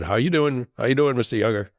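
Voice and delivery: lightly imitated Boston nurse accent; a hint of a Boston nurse greeting. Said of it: "the accent".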